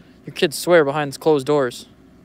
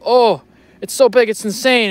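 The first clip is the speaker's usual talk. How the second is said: higher, louder hammed-up fish excitement; mock excitement; 7 semitones higher, 6 dB louder than usual. Mocking fishing YouTubers freaking out over a tiny fish, hammed up. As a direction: overreact like a YouTuber hooking a fish. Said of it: "and you go, you go".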